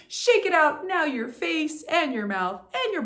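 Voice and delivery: pep up the room; bright, high, loud cheer. Real, not acted. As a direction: coach rallying the class to shake it out. Coach energizing class.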